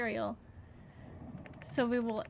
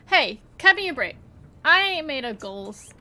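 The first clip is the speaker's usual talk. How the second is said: put-on folksy country accent; 5 dB louder than usual. The speaker defends himself to the builders in a light folksy country accent. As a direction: grumble it like an old country rancher. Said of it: "I just had an accent all of a sudden".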